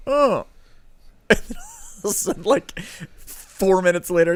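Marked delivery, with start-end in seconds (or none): 0.1-0.5 high, falling "oh" of discomfort; retold pained oh. Imitating Caitlin getting something in her eye, pained high oh. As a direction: imitate a sudden twinge, high then dropping. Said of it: "got something in her eye and went".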